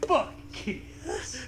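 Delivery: unvoiced aside; whispered joke. Real, not acted. Co-host tossing a crude whispered joke. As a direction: breathe it out as a quick aside.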